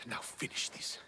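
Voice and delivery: soft, whispered surrender; defeated whisper. Acted. Defeated Stentor asking Alexios to end it, whisper. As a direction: breathe it out, beaten.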